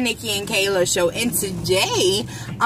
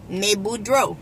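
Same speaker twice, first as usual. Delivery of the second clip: Cajun "May Boudreaux" with a drawn "May"; cajun accent; 3 semitones lower than usual. Shown as a demonstration. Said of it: "you gotta get".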